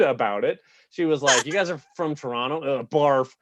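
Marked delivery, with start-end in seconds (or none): 1.5-3.3 rude local woman. Retold or imitated. White River woman scorning Toronto visitors, lightly mocked rude boasting. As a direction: lightly imitate a proud, rude townswoman. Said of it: "was super rude".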